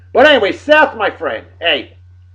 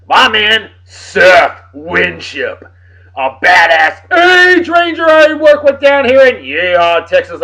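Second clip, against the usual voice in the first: excited shout; 2 semitones higher, 6 dB louder, slower than usual. Real, not acted. Hyping up coworker Seth loudly.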